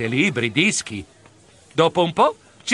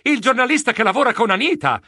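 higher, startled recognition; exclaiming; 6 semitones higher than usual. Acted. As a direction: announce the discovery with a jolt. (esclamazione sorpresa)

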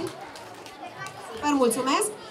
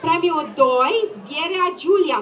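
usual speaking voice

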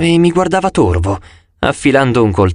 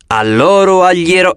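grandly recited verse, a little higher; declaiming verse; 5 semitones higher than usual. A narrator's reading. Apollo clears his throat to recite to the gods, declaiming. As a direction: launch into a lofty recital. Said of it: "cominciò a recitare".

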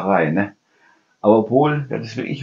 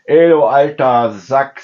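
put-on cheeky kid insult; 5 dB louder, slower than usual. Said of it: "sagt er zu mir".

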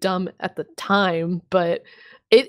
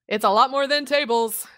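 mock announcer; 4 semitones higher than usual. Continues mock announcer teaser.

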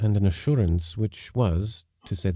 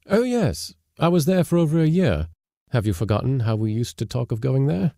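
eager; 4 semitones higher than usual. Acted. Man eagerly recounts Russia trip.

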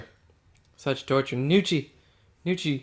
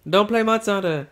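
mocking imitation; 6 semitones higher, 3 dB louder than usual. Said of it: "and you're like".

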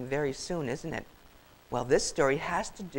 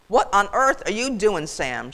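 scolding, emphatic question; indignant goose; 3 semitones higher, 6 dB louder than usual. Acted. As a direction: demand an answer in disbelief. Goose confronts lazy turkey.

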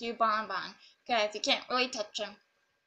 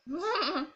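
giggle; 3 semitones higher than usual. Real, not acted. Amused at own stealing.

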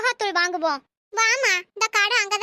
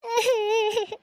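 crying wail. Acted. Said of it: "ஏன் அலறீங்க?".

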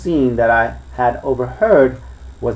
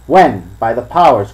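louder exclamation, mild pirate cry; cried out; 5 dB louder than usual. Acted. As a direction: throw it out like an oath. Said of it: "cried Silver".

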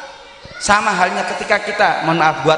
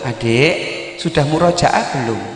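gentle question; 5 semitones lower, slower than usual. Shown as a demonstration. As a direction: ask the child kindly, not ordering. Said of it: "Rubahlah kalimat ini". (pertanyaan lembut kepada adik)

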